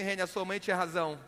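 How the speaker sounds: hushed, solemn. Retold or imitated. Friend repeats mother's lesson on phone.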